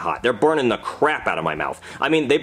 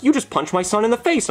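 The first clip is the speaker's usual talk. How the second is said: higher mock accusing mother; outraged mom impression; 8 semitones higher than usual. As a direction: lightly imitate a shocked mom. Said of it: "and then his mom runs over".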